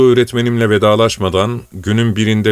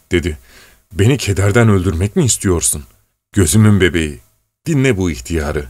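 trembling voice; 2 semitones higher than usual. Acted. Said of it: "Titrek bir sesle".

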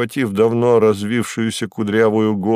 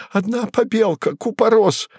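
much higher, panicked gabble; terrified babble; 12 semitones higher than usual. Acted. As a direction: blurt it out in sheer terror. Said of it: "в ужасе понёс какую-то околесицу".

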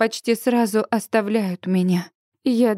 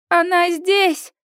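higher urgent call into a phone; mild shouted call into the phone, higher; shouting into phone; 7 semitones higher, slower than usual. A narrator's reading. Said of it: "кричит Сьюзи в телефон".

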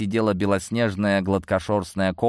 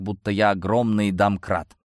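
ordinary delivery

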